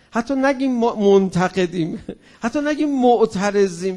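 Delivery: quoting timid words through a laugh. Retold or imitated. Speaker amused, quoting the worried youths laughing. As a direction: chuckle while voicing the cautious youths.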